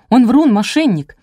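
narrator's friend snapped at, heated; angry outburst. A narrator's reading. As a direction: lash out at her friend. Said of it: "накинулась я на подругу".

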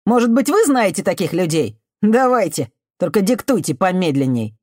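high, loud biting sarcasm; mock her, loudly; sarcastic shout. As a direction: youth jeers at her offer of help.

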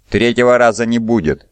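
spat out. Acted. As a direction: spit the words at him. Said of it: "выплюнул Каланет". (презрительно выплюнуть)

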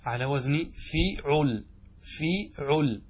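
فيعل drawn out slowly, fi then ʕul; slow pattern demo. Shown as a demonstration. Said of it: "لا يوجد عندنا شيء". (نطق بطيء لوزن فيعل)

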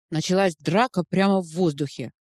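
ordinary delivery

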